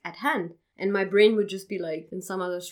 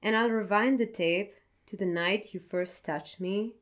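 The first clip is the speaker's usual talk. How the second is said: poem reading. Acted. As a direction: read it gently, like a confession. Reads her poem aloud.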